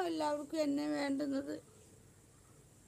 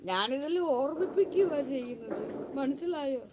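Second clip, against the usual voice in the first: heated retort; 5 dB louder than usual. Real, not acted. Retorting to critics who mock her.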